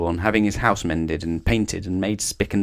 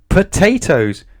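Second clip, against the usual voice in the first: surprised; 11 semitones higher, 8 dB louder, slower than usual. A narrator's reading. Narrator's surprise at the transformation.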